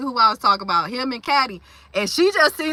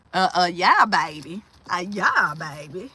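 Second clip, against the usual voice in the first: low sultry voice; 6 semitones lower than usual. Acted. Playful aside to chat.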